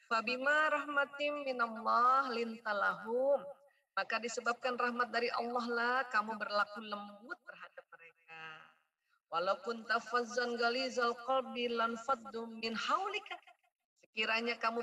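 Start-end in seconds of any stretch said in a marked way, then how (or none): 0.1-3.4 slow chanted Arabic; Quran recitation. Acted. 9.3-13.4 slow chanted Arabic; Quran recitation. Acted.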